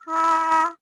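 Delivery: teacher modelling the fourth tone on "Ha.". Shown as a demonstration. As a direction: snap "Ha." down in a clear falling tone. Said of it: "you miss is the fourth tone".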